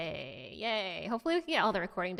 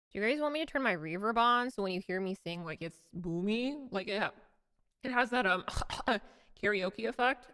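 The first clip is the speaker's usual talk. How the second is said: voice changer. Real, not acted. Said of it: "My voice changer is on".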